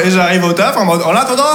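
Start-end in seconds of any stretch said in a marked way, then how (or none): 1.1-1.6 lisping s as th in attendant. Pretend. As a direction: say «En attendant.» with a lisp. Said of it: "je zozote".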